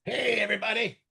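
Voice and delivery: high little talking-pet voice; Teddy the dog. Pretend. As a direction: voice a puppy greeting everyone. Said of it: "I'm Teddy".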